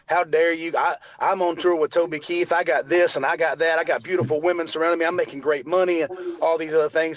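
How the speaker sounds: imitating his own upset comeback, a touch heated; mildly indignant boasting, retold; mild retold indignation. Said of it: "I got so upset".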